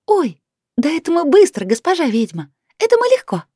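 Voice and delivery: high, joyful squeaking fairy voices; squeaky fairies. A narrator's reading. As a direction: chirp it out like tiny happy fairies. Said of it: "радостно запищали феи".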